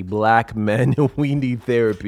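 slow, deliberate, every word spelled out; over enunciating. Shown as a demonstration. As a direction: repeat it slowly for emphasis. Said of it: "let me repeat that slowly".

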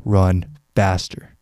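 a motivational coach egging on a runner; coach urging. Shown as a demonstration. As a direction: push the listener mid-run like a trainer. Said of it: "telling you to run faster".

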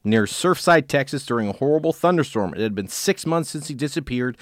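measured true-crime read-aloud; story narration. A narrator's reading. Host reads a case to co-host, story narration.

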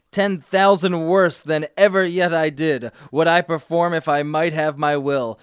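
dramatic reading. Acted. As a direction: read it out like an unrepentant villain. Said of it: "can I try one of the passages".

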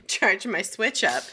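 laughing through the lyric; giggly. Real, not acted. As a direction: giggle out the words. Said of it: "I got the giggles".

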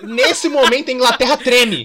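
slow, laughing, mock-solemn announcement; hammed-up doom through laughter; mock dramatic. Zoando o liberalismo. (anúncio dramático de brincadeira, rindo)

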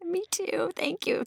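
soft whispered thanks; whispered thank you with a laugh inside. Real, not acted. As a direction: breathe it out, almost no voice. Quiet thanks after compliment.

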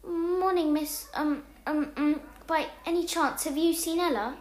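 nervous shaky voice. Acted. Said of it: "I spoke with a shaky voice".

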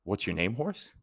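rising pitch on "horse"; baffled, asking in disbelief; puzzled question. Retold or imitated. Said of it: "and everybody's like".

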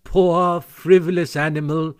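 mildly haughty put-down; lofty. A narrator's reading. Jealous Toad belittles Mole's prank, lofty. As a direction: look down on him with disdain. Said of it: "said Toad very loftily".

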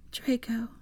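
reverently. Acted. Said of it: "she said reverently".

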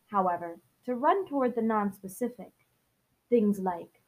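even, measured audiobook read; story narration. Acted. Host reading the novel's prologue to listeners, story narration.

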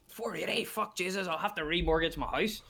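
high-pitched imitation of an outraged punter; mock price shock. Customer hears the pint's price, mock shock. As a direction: exclaim high in exaggerated disbelief.

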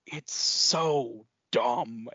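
very slow, drawn-out mock Southern drawl; attempted Southern accent. Detective at the end of the film, imitated Southern accent. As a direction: imitate the Southern detective, stretching each word. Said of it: "I'm gonna try my best to do, like, the accent".

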